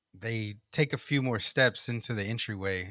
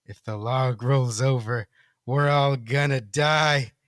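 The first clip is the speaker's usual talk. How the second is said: tiny voice; 4 dB louder, slower than usual. Acted. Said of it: "says in a tiny voice".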